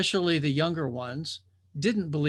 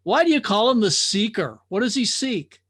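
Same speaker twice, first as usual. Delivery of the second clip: curious drifter; 5 semitones higher, 6 dB louder than usual. Acted. Drifter questions the watcher.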